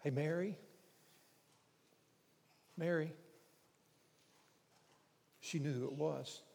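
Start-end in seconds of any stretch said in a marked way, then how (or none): 0.0-0.6 understated, casual calling of her name; easy, intimate greeting; gentle name call. Acted. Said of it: "No, I, he didn't do that". 2.8-3.1 understated, familiar calling of her name; intimate, unforced address; gentle name call. Acted. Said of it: "she had heard that inflection before".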